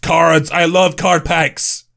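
thrilled, drawn-out delight; big excited "oh", then savour it; too excited. Real, not acted. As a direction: gush over a favourite treat. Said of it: "I'm getting too excited here".

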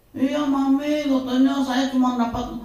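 put-on a light touch of a nervous girl reporting grades; hint of a scared schoolgirl answering mum; timid daughter. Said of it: "Suaranya begitu tuh". (anak perempuan takut-takut melapor nilai)

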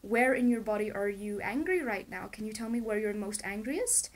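lightly voiced gentle question to a child. Asking her inner child where the anger sits, gently. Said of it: "I asked myself very gently, as you would a child".

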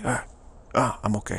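a touch of a weary sigh on ah; mopey okay. Shown as a demonstration. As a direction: drag out the ah like a tired shrug. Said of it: "I don't say".

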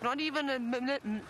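stutter. Real, not acted. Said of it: "My stuttering this afternoon".

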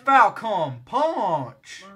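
slow drawn-out Falcon Punch battle cry; Falcon Punch yell. Pretend. Launching his rider with a drawn-out Falcon Punch battle cry. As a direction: stretch every syllable like a fighting-game hero. Repeats the catchphrase.

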